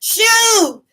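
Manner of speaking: reenacted exasperated dismissal; retold shooing away. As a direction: shoo someone off loudly. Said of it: "I'm like".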